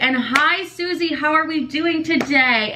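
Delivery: sugary, slow mock shoutout. To her mom, mocking a friendly TikTok shoutout to Susie, slow and sugary. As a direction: put on a fake cheery greeting. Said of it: "you want me to be like".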